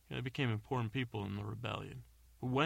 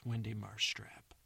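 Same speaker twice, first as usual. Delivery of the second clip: slow whispered name reveal; hushed, slow name drop; dramatic whisper; slower than usual. Pretend. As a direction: breathe the name like a mystery. Introducing the returning character by name.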